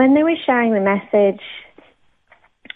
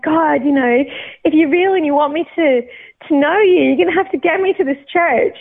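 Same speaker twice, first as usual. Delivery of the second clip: higher-pitched, insistent mock prayer; retold plea to God; 5 semitones higher than usual. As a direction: bargain with God, pitch lifted. Pleading prayer while lost driving.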